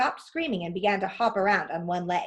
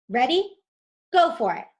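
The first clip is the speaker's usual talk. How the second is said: eager cue; 5 semitones higher, 6 dB louder than usual. Acted. Urging partner to press.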